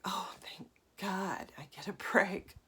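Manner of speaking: slow whispered sigh of relief; relieved body. Pretend. The tired body given a break, slow relieved whisper. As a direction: let it out like finally resting. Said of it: "your body's like".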